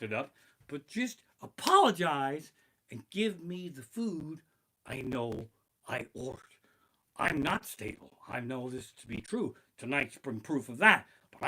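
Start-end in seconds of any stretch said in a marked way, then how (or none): 4.9-6.4 soft unvoiced whisper. Real, not acted. Complaining about fast food, whispering. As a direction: breathe it out as an aside.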